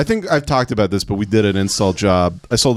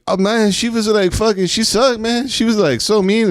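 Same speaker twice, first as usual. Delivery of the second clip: high, put-on coworker voice; mock complaining coworker; imitating coworker; 10 semitones higher than usual. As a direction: whine about the mean customer. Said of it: "the Mexican guy was like".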